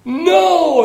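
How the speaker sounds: put-on high, loud cry of a little boy protesting; imitating a little boy's loud high protest; child crying out. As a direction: shout it out like a small child in the pew. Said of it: "the little boy, cries out".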